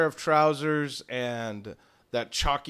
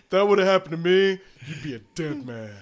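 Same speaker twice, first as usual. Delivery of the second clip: louder, a lightly voiced threat; a hint of a stern master; menacing Thaddeus; 3 semitones higher, 7 dB louder than usual. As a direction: warn the assistant with mock menace. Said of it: "and he's".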